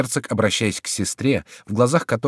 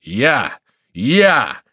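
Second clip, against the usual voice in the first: loud cries rising higher each time; self-assured; 6 semitones higher, 7 dB louder, much slower than usual. A narrator's reading. Monk at window answering Crillon, cocksure. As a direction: crow it with growing self-importance. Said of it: "отвечал самоуверенно Горанфло".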